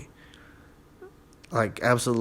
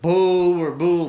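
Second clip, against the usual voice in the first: slow mock booing; 5 semitones higher, 5 dB louder, much slower than usual. Real, not acted. Booing the company.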